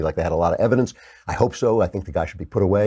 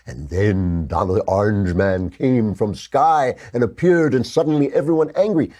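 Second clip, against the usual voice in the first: mock caveman storyteller. Mocking fairy-tale version of events.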